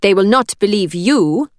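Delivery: put-on steady, firm, Italian accent. A narrator's reading. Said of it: "willing her voice to remain steady".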